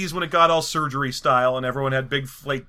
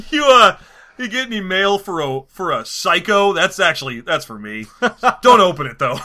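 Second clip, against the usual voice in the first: loud, goofy shady politician; blustering, with odd stops and starts; Joe Biden; 2 semitones higher, 5 dB louder than usual. Acted. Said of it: "I'm Diamond Joe".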